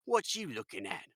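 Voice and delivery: hammed-up British tough guy; American doing a bad British accent; terrible British accent. Game host imitating the guys at sea, bad British accent. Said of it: "that's my terrible American British accent".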